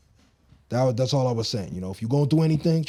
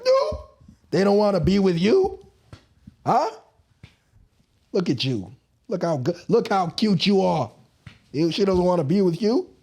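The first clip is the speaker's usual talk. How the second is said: hammed-up Italian accent, a bad one; 4 semitones higher than usual. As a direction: play a gushing Italian guy in a bad Italian accent. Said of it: "That's my, um, accent".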